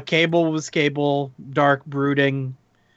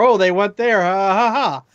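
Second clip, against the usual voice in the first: higher, louder mock amusement with ha-ha-ha; imitated audience laughter; 4 semitones higher, 4 dB louder than usual. Reviewer quoting delighted Deadpool one viewers, mock laughing. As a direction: act out an audience cracking up.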